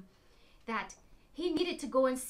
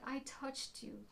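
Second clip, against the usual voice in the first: timid confession; 11 dB quieter than usual. Acted. Woman timidly owning up.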